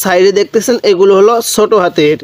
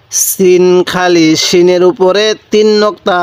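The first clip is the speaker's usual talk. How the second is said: slow recitation. Shown as a demonstration. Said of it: "এরকমভাবে শিখব".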